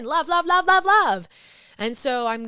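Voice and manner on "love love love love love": high, loud gushing repetition; effusive love. Real, not acted. Host remembering her happy dog Luna, gushing exuberantly. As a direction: pour it out, rising higher and louder.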